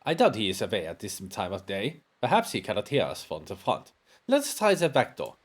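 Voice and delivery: lightly voiced German-accented doctor, measured; German-accented investigator. Investigator at his friend's door, German-accented.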